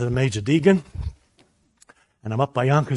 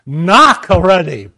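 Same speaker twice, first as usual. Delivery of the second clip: insistent inner voice; 2 semitones higher, 11 dB louder, slower than usual. Retold or imitated. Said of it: "And the voice came again".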